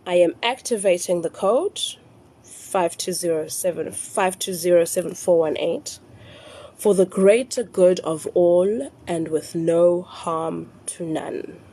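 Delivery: slow, deliberate recital in separated chunks; nice and slow. Shown as a demonstration. Teaching followers the second part of the phrase, slowly. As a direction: dictate it slowly, drawing out the key words. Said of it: "say it nice and slow".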